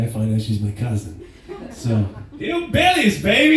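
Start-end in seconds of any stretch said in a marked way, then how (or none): 2.4-3.6 high squealed exclamation, much higher; mock shriek. Cousin's surprise greeting, squealed much higher. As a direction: squeal it like a delighted relative.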